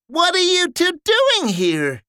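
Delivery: ask, baffled; puzzled soldier. Acted. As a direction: soldier meeting brothers in the woods. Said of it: "said Ralph".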